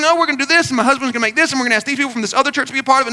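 mock run-on planning, racing ahead; imitated nonstop chatter. Woman on the phone talking over the pastor, imitated nonstop rattle. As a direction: rattle on without a gap. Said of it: "she just went on and".

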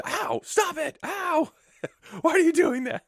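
high yelping with a laugh; Finn laughing through pain. Retold or imitated. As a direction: yelp and laugh at the hits. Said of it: "kicks Finn's ass".

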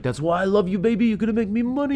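high-pitched mock hustler voice; sleazy big shot. Imitating the slicked-up Harry sweet-talking his baby, high mock-sleazy voice. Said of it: "he's like".

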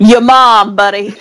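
put-on New York accent. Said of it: "my best New York accent".

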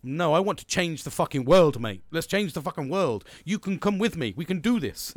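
retold rallying cry to a laid-back mate; fired-up pitch. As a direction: sell the dream with gusto. Retold pitch to change the world.

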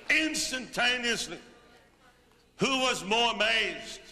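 thrilled retelling of a miracle; amazed. Retold or imitated. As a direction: burst out in wonder at the miracle. Telling of a miracle healing.

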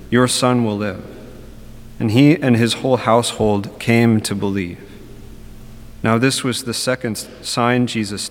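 solemn liturgical reading voice; Gospel reading. Acted. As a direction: proclaim the Gospel measured and steady.

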